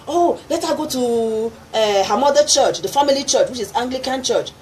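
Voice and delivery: a hint of the father pleading; father's voice. Retelling what father said.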